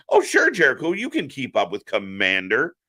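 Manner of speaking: dripping fake encouragement; sarcastic. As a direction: humour him sarcastically, as if you believed it. Mocking Jericho's belief in himself.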